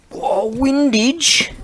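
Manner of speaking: high, loud, slow hammed-up gasp of discovery; mock delighted discovery. Sorting tools on camera, high loud mock-surprised exclaim. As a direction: stretch it out like finding treasure.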